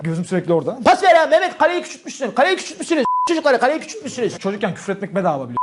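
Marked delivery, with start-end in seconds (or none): 0.8-4.4 put-on kid calling out. Kid shouting during street football.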